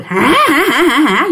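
imitated creepy little giggle; eerie child laughing. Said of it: "nó cười".

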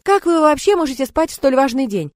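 grand theatrical exclamation; hammy stage actor. A narrator's reading. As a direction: declaim it like a pompous actor. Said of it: "пафосно воскликнул Крендель".

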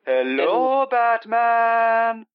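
long, sliding high-pitched greeting; silly put-on voice. Alien intruder greets Batman in the Batcave, silly put-on voice. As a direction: stretch it out and swoop up into a silly held note. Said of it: "why I went with that voice".

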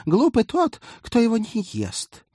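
high, loud mock-pompous oration; pompous captain voice. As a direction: parody his grandiose pronouncement. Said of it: "попыталась скопировать пафосный голос капитана".

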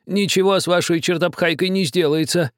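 high, a touch of cross muttering; angry mutter. A narrator's reading. Old man muttering crossly at the captain. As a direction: grumble it crossly. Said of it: "сердито пробормотал старик".

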